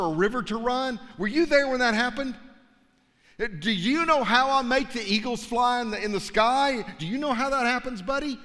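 mild playful God; teasing God. Acted. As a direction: quiz Job like a cheeky old friend. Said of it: "Things like".

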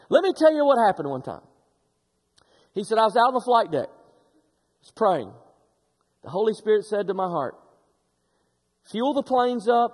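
put-on a light, quick try at a friend's regional accent, kept mild; Tony's accent. Pastor retelling the retiring sergeant's story, in his accent. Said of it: "I want him to try to do his accent".

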